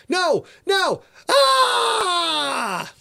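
high panicked no no breaking into a scream; terrified scream. Acted. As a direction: cry out in terror as you're grabbed. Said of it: "a scream came over the radio".

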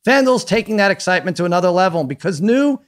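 lively sponsor read with punched phrases; upbeat ad read. Acted. Host plugging a sportsbook to listeners, upbeat ad read. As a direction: sell it like a podcast host reading an ad.

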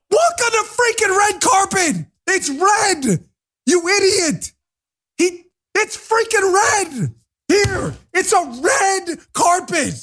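high, drawn-out exasperated cry; exasperated rant. Real, not acted. Host losing it over the red carpet, exasperated high outburst. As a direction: stretch each word in high-pitched outrage. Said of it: "I gotta calm down".

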